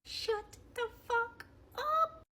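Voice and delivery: high, slow, tight-voiced telling-off; mock scolding. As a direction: hold it down but draw out each word. Retold scolding of husband at table.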